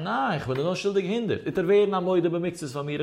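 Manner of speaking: mock outcry, pitch climbing to the end; mild protesting cry. Debtor answering the creditor's claim of two hundred, mild acted cry. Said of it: "Und er hat schreien".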